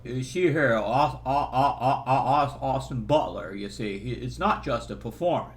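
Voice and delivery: Jimmy Stewart impression. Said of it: "Jimmy Stewart".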